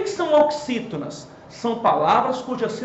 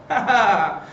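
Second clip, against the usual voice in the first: teasing laugh; 3 semitones lower than usual. Pretend. Teasing laugh after the reveal.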